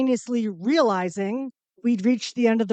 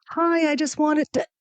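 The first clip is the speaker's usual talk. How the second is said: sweet greeting; 7 semitones higher than usual. Retold or imitated. Friendly greeting to John C. Reilly.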